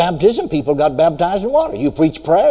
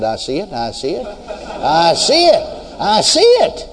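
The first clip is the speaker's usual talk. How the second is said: dawning realization. Retold or imitated. Sudden realization of the verse.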